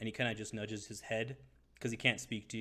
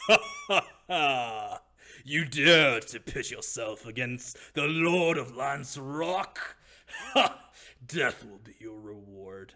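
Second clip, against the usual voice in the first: very loud, booming, cackling villain voice; 3 semitones higher, 11 dB louder than usual. As players enter a room, the game master voices the cackling Lord of Lance Rock. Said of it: "you guys hear a cackling voice".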